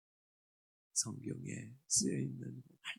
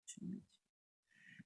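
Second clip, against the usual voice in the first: soft whispered echo; 15 dB quieter than usual. Acted. Pastor echoing the blessing to the congregation, whispered. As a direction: breathe it like a private promise.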